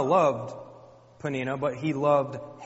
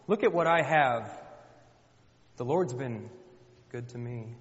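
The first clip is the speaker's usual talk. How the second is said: taunting. Retold or imitated. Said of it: "Taunted her".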